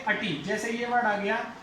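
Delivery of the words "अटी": अटी as uh-tee, short weak first vowel; suffix demo. Shown as a demonstration. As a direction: lower falling अटी as a model ending. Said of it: "आईटीवाई वाले को क्या पढ़ेंगे".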